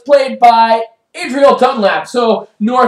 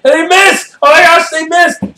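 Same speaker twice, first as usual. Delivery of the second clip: higher-pitched cry of disbelief; excited commentary; 8 semitones higher, 3 dB louder than usual. Acted. Commentator reporting the missed field goal, excited disbelief. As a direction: react as if the miss just happened.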